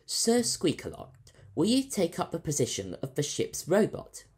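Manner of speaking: politely asking a robot to serve; Captain Fryce. A narrator's reading. Captain asking the robot to join, lightly voiced.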